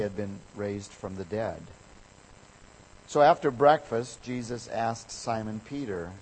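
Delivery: measured, unhurried Bible reading; scripture reading. Acted. Pastor reading John to the congregation, steady and measured. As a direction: read the Gospel story aloud to the church. Pastor reads the Gospel passage.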